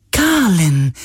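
high, bright call of a name; suddenly glad recognition; joyful. A narrator's reading. Spirit joyfully recognizing Galen, high call. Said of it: "sagte der Geist plötzlich freudig".

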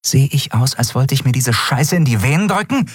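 mild snarl of contempt; hissing at him. A narrator's reading. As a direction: spit the words at the junkie. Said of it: "fauchte sie".

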